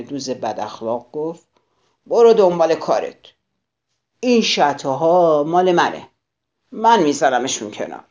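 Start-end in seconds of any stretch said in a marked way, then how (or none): 2.1-8.0 louder, gruff brush-off; grouchy rebuff. Acted. Grouchy ladybug claims the aphids, loud and gruff. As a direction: shove the other bug away with your voice.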